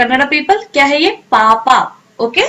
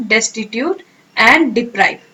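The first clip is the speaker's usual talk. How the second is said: very slow, each word drawn out; slow teacher dictation; 3 semitones lower, much slower than usual. Shown as a demonstration. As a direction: stretch "Destitute and deprive" out slowly. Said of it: "synonym क्या है इसका".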